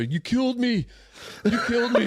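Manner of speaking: high-pitched mock-panicked yell at a brother; hammed-up hysterical shout; imitated yelling. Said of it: "he's yelling at his brother".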